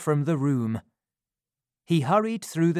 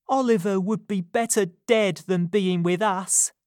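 hating herself; bitter young woman; 6 semitones higher than usual. A narrator's reading. Nancy to Fagin, high and bitter.

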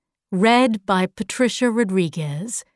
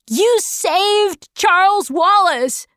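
high, excited cheer; shouted; 8 semitones higher than usual. A narrator's reading. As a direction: call it out high in triumph. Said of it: "shouted Calvin".

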